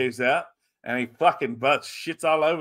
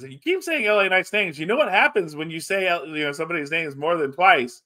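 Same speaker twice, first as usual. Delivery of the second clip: higher-pitched wrestler promo retelling; a light, raised-pitch mock warning; Kevin Owens; 5 semitones higher than usual. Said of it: "and Kevin Owens says".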